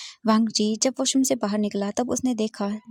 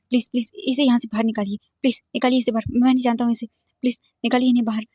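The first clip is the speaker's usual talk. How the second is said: louder, fast begging the nurse; urgent plea; 3 dB louder, faster than usual. Acted. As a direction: plead to throw him out. Begs nurse to remove him. (नर्स से तेज़, ऊँची गुहार)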